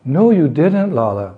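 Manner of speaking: high, emphatic swoop on the no; mock tearful denial. Mother teasing her confessing son, playful high denial. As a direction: contradict in a lifted voice, dropping on the name. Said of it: "She replied".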